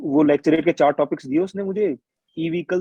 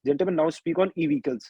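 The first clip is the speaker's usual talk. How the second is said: slow officer's order; slower than usual. Retold or imitated. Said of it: "GTO भाई बोलता है".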